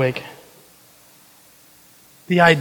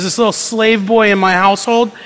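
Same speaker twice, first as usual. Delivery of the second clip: tender, precious; 2 semitones higher than usual. Retold or imitated. Centurion tenderly telling of his slave boy. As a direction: hold the boy dear in your voice. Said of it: "This is a centurion who says".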